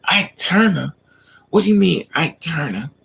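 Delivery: his offended echo; indignant retort. Retold or imitated. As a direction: throw it back at her, offended. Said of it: "you on your Ike Turner".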